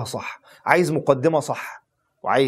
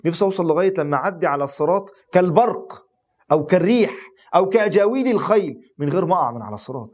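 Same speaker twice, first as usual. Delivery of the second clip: rising, louder yearning plea; impassioned plea; 4 semitones higher, 4 dB louder than usual. Real, not acted. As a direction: pour out the longing, voice lifting higher. Longing prayer for crossing Sirat.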